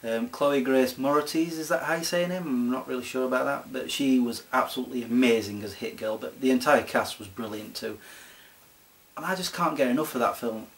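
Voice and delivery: normal talking voice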